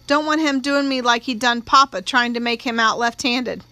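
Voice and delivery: put-on a touch of tearful country-girl protest; lightly voiced distressed country girl. Young witness telling the judge her fear of the lawyer, mildly upset. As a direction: lightly play a frightened witness, slowing at the end.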